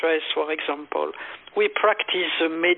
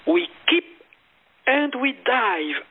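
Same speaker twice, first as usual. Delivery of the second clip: guided meditation. Retold or imitated. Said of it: "I say".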